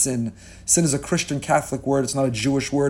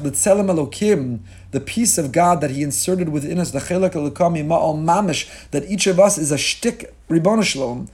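ordinary talk, nothing marked

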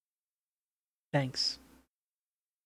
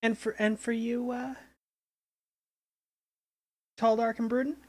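diner waitress; 6 semitones higher than usual. Acted. Waitress teasing a player.

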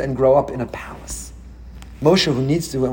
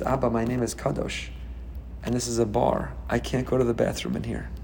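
much softer, low and earnest; small boy's answer; 3 semitones lower, 9 dB quieter than usual. Retold or imitated. Son explaining to his father, soft and sheepish. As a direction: explain it gently like a shy child.

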